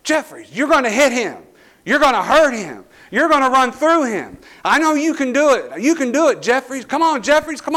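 high, loud, pushing him on; fired-up coach yelling. Retold or imitated. Coach yelling to fire up his nose guard. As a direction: shout encouragement like a coach at practice. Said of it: "he just keeps yelling".

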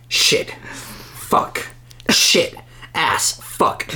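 whispered swearing; whispering. Real, not acted. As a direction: hiss the curses under your breath. Swearing under breath.

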